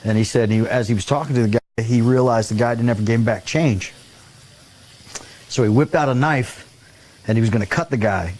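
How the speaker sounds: ordinary delivery, nothing marked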